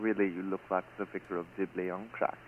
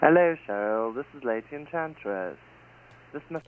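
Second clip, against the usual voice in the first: fake British accent; 4 semitones higher, 5 dB louder than usual. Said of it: "Why are you trying to sound British?".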